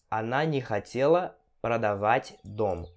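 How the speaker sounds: slow, broken into phrases by pauses; slow teaching repeat. Shown as a demonstration. Teacher repeats a house-selling example for students, slow and separated. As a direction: pause between phrases for learners.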